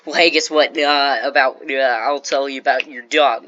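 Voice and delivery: loud blurted interruption; interrupting loudly. Shown as a demonstration. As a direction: barge noisily into someone else's chat. Acts out butting into talk.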